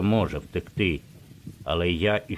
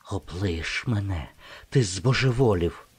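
high strange whisper; 2 semitones higher than usual. A narrator's reading. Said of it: "прошепотіла вона раптом високим, чужим голосом".

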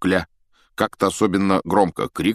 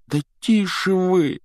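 pleading; 12 semitones higher, 3 dB louder, slower than usual. Acted. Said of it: "взмолился Гарри".

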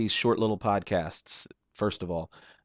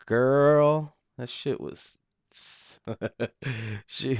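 excited; 5 semitones higher, 4 dB louder, slower than usual. Real, not acted. Gushing over a music video.

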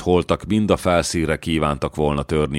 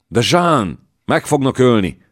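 alarmed plea; 7 semitones higher, 4 dB louder than usual. Acted. Dallon fears for her.

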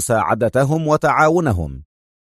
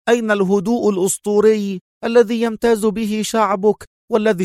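taunting, pitch often raised; mocking; 7 semitones higher than usual. A narrator's reading. Adham taunting his British rival, mocking. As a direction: needle him with sarcastic questions. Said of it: "وهو يقول مواصلا سخريته".

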